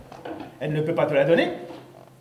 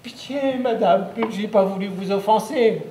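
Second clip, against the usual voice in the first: pleading; 4 semitones higher than usual. Acted. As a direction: beg the witch for mercy. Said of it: "je me mets à supplier".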